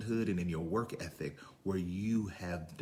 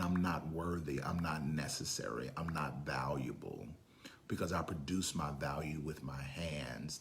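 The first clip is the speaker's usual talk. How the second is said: whisper; 5 semitones lower, 7 dB quieter than usual. Acted. Preacher voicing insecure inner thought.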